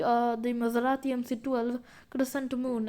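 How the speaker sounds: a stronger Indian accent on Maserati, retroflex t in twelve; slipped into Indian accent. Real, not acted. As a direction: let the Indian accent come through on the car name. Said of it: "I don't know why my accent changed like that".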